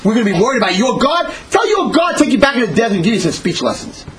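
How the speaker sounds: acted scornful taunt; jeering. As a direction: jeer at him, pitch jumping up. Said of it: "They were laughing".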